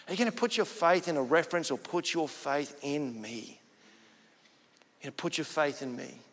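soft, measured divine question; quiet voice of God. Retold or imitated. God answering the weeping man, quiet voice. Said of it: "this voice just spoke to him".

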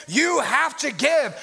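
slow, heavy mock command; mock joyless order, word by word; obligation, ending in a period. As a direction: spell it out like a duty. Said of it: "could have ended it with the period".

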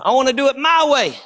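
relentless pulpit cadence, building steadily in intensity; full-force preaching. Acted. Preacher contrasting religion with relationship, driving full-force preaching. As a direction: preach on without letup, phrase upon phrase.

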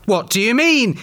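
high, indignant storybook retort; exclaiming. A narrator's reading. Peter answers Vera's accusation, exclaiming. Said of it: "exclaimed Peter".

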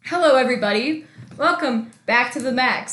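stiff, mechanical host greeting; robot voice. Real, not acted. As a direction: announce it like a robot. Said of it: "You sound so like a robot".

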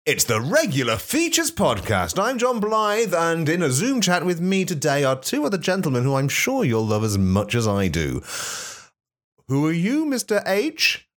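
very high, hammed-up host voice; high-pitched host voice. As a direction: announce the show in a squeaky voice.

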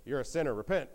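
understated retold rebuke; mild accusation. Job's friends first tell him to repent, mild accusation. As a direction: accuse with a touch of firmness.

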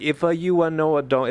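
attempted Tori accent. Shown as a demonstration. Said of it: "to do the voice".

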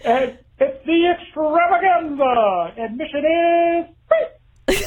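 high, laughing ad voice; retail ad announcer. Retold or imitated. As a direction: hype the event, barely holding in laughter. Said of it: "went something a little like this".

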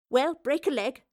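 cheery send-off; grinning. Acted. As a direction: wish them well with a grin. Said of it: "the professor grinned".

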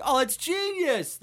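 high, slow sarcastic praise; mock gushing. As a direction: fake rave with a high squeal. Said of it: "I'd have to be like".

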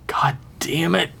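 hissed curse under the breath; angry whisper. Acted. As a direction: curse in a tight, voiceless whisper. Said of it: "she whispered to herself".

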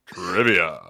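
ringmaster. Acted. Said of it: "radio host voice".

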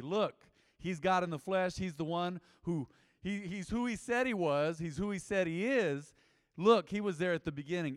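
preacher voicing an emphatic testimony; emphatic and plain. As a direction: state it very clearly, driving each point home. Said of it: "saying very emphatically, very clearly, very plainly".

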